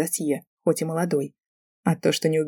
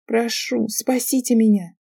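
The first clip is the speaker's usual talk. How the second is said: high, hammed-up tragic call; girl calling to her rescuer, overdone tragic tone; 6 semitones higher, slower than usual. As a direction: pile on the tragedy. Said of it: "Я добавила побольше трагичности в голос".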